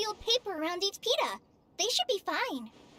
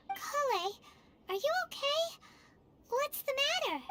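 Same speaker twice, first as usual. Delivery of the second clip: higher, tentative worried questions; gentle concern; 7 semitones higher than usual. Acted. Companion checks on startled friend, gentle concern. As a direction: ask carefully, with worry.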